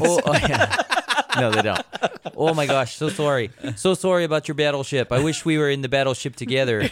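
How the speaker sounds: put-on Canadian accent. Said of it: "despite my perfect Canadian accent".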